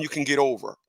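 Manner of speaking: breathy unvoiced whisper; hushed aside. Real, not acted. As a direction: lean in and whisper it like a secret. Explaining, drops to whisper.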